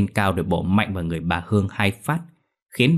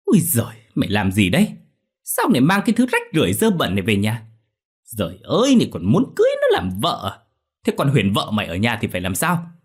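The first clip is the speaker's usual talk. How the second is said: shrill, louder scolding of her son; nagging; 3 semitones higher, 3 dB louder than usual. Acted. Mother scolds son for bringing the girl home, nagging. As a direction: nag him in disbelief. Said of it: "càm ràm".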